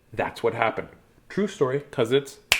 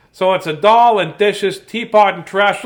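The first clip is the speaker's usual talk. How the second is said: cheerful storybook mouse showing off the house; 3 dB louder than usual. Acted. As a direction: chirp it out like a little mouse. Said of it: "this is the mouse voice there".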